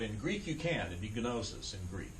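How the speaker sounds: "gnosis" with the G sounded before the N; Greek pronunciation. Shown as a demonstration. Teacher showing students the Greek G and N together, pronounced hard G. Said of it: "pronounce the G and the N together".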